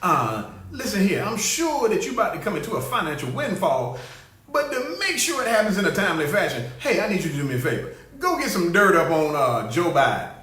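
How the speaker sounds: lightly voiced crooked boss cutting a deal; mock president on the phone.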